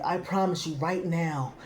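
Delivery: quiet, solemn vow like taking an oath. Retold or imitated. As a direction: swear it like an oath in court, hushed. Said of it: "as if taking an oath".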